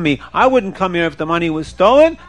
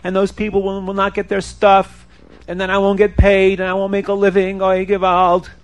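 mildly plaintive singsong complaint; worried buyer bemoaning his lot; distressed lament; 3 semitones higher than usual. Acted. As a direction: lament the loss on one held, slightly raised pitch. Robbed buyer laments in story.

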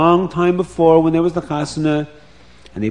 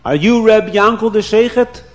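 higher and louder, anxious asking; eager question; 6 semitones higher, 6 dB louder than usual. Acted. Bubby at the sheikhet's door, eager and louder. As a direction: call out hopefully at the door.

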